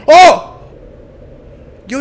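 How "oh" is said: loud high gasp of fright; startled yelp. Real, not acted. Player jump-scared in a horror game, loud yelp. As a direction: caught off guard, yelp.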